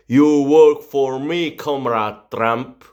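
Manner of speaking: mock Russian boss.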